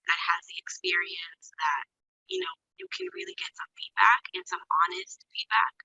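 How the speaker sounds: faint, distant, breathy audio; far from mic. Real, not acted. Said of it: "you sound like you're far away".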